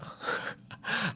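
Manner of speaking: quiet, breathy little laugh; soft laugh. Real, not acted. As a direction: chuckle softly to yourself. Amused at own change of mind.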